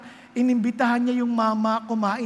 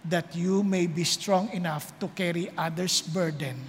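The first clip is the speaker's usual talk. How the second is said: gentle altar call; 5 semitones lower than usual. Acted. Altar call, soft low delivery. (mahinahon at mababang panawagan)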